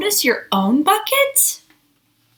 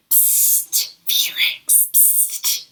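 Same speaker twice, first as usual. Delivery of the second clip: soft unvoiced hiss of a whisper; 7 dB quieter, much slower than usual. Classmates whispering about Felix, a breathy whisper. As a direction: whisper like kids gossiping. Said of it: "His friends are whispering about him".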